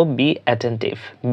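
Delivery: very slow, each syllable drawn out; slow teacher demo, then normal; slow model phrase. Shown as a demonstration. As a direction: say it slowly so learners copy it. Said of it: "আমরা ইংরেজিতে বলবো".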